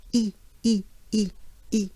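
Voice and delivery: "E" as French i, like "ee" through a big smile; short, separate "ee" for "E", lips spread wide; banana-smile E. Shown as a demonstration. Teacher shows best way to pronounce it, banana-smile E. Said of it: "the banana smile is a big smile".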